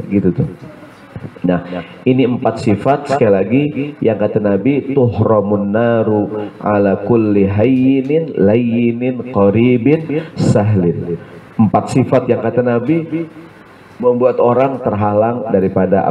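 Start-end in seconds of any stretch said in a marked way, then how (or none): 4.9-11.2 1 slow Arabic recitation. Acted.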